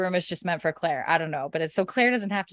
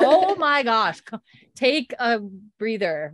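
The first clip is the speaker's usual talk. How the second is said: mock exasperation; 4 semitones higher, 5 dB louder, slower than usual. Retold exasperated reply to dog's bark.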